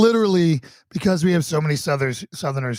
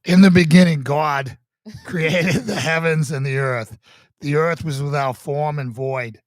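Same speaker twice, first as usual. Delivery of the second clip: put-on Boston accent. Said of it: "the Boston special".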